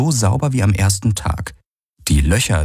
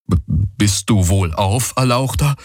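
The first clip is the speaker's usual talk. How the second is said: put-on stammering, eager young servant; eager youth; 3 semitones higher than usual. A narrator's reading. Young villager checking on the exalted guest, eager. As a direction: ask eagerly, tripping on the first word. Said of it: "fragte der junge Vierarm eifrig".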